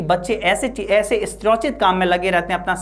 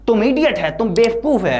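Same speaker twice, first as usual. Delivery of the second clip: acted teacher's yell, pitched up; teacher yelling at Sebi, hammed-up anger; mock angry shout; 4 semitones higher, 3 dB louder than usual. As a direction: scold the boy in a mock rage. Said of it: "वो चिल्लाते हैं".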